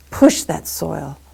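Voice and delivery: slow, loud, leaning on "push"; effortful digging. Acted. Miser pushing the spade into soil, drawn-out effort. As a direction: stretch it out like shoving a spade.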